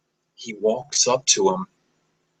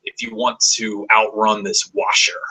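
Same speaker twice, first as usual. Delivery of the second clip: Irish pirate. Acted. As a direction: growl it like an Irish sea captain ordering a slave back to work. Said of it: "he sounds like an Irish pirate".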